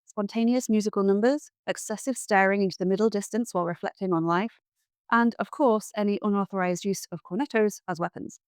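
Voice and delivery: formal, crisp news read; news anchor. Acted. Spoof news bulletin read.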